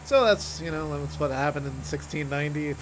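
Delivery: abruptly casual, imitated teacher's lecture; imitating a teacher, suddenly composed; calmed back down. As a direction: drop straight back to ordinary lecturing after a rant. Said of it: "just calm right back down".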